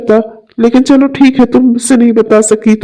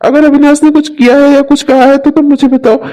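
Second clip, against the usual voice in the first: worried concern; 4 semitones higher than usual. Acted. Friend finds Sudha crying.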